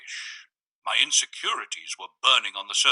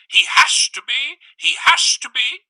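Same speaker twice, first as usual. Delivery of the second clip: much higher, loud frantic shriek; 8 dB louder than usual. A narrator's reading. Visitor pushing on the door, shrieking at the narrator. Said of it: "he shrieked".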